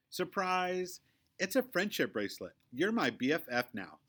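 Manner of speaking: put-on bright, high, excited girl voice; Victoria's eager voice. A narrator's reading. Girl surprising her new friend, high excited voice. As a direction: gush it out like a new best friend. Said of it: "says Victoria".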